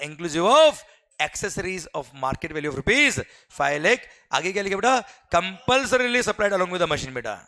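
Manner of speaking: very slow, each word spaced out for note-taking; slow dictation. Shown as a demonstration. Teacher dictating the customs question to the class. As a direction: read it out so students can copy.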